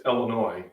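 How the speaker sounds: "Illinois" ending in an oy sound, no S; silent final S. Shown as a demonstration. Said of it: "You don't pronounce the S".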